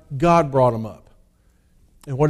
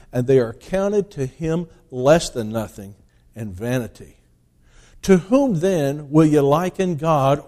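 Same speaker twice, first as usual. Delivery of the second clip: declaiming the King James text, loud at the start; solemn pulpit reading of Isaiah; scripture reading; 3 dB louder than usual. Acted. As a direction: read it like a preacher proclaiming the word. Reads Isaiah aloud from the pulpit.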